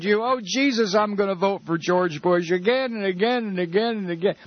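high-pitched mock devotion; gushing TV viewer. Host mocking viewers pledging votes to Bush, high gushing parody. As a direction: mimic a brainless, adoring voter, voice pushed up. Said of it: "That's how stupid we are".

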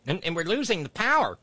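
parroting her talking point with a touch of scorn; mock impression. Host mocking the congresswoman's catchphrase, lightly mocking voice.

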